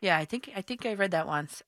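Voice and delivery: muffled behind hands; hands over mouth. Real, not acted. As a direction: talk through covered mouth. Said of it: "I have my hands over my mouth".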